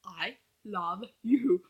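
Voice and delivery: soft, urgent whispered begging; hushed coaxing to say it; whispered pleading. Retold or imitated. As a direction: plead with the characters under your breath. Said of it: "I'm like".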